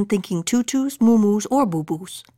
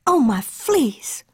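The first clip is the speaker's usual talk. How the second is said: wailing; 4 semitones higher, much slower than usual. Acted. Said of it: "wailed Mama Junebug Jones".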